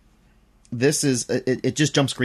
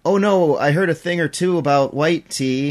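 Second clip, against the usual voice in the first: acted customer; 4 semitones higher, 5 dB louder than usual. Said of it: "the conversation always goes like".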